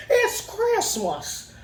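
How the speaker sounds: high, slow, awed and laughing; Jimmy Stewart movie joy. Retold or imitated. Kid overjoyed at the store, high, slow, awed, laughing. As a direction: savour each word like an old movie hero. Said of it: "like a Jimmy Stewart movie".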